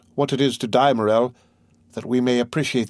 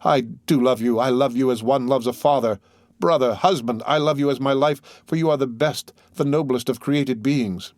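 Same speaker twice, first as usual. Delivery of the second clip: ordinary delivery, nothing marked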